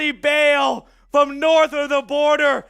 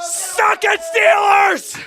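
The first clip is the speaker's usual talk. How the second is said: taunting shout; 7 semitones higher, 4 dB louder, slower than usual. Real, not acted. Taunting the rival team.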